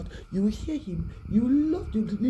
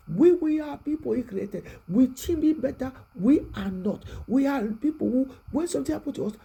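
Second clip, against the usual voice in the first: higher, louder sermon climax; fervent preaching; 5 semitones higher, 4 dB louder than usual. Real, not acted. Preacher rousing the congregation, higher and louder. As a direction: drive the point home with fire.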